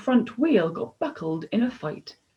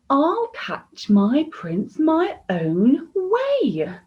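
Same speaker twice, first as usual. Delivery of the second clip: determined; 10 semitones higher, 4 dB louder, much slower than usual. A narrator's reading. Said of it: "said Princess Rosamond".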